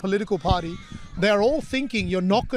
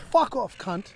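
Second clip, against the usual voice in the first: Aussie insult; slower than usual. Acted. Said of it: "ready to hear how he said".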